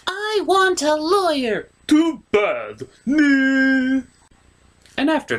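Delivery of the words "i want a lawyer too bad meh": high heroine voice. Acted.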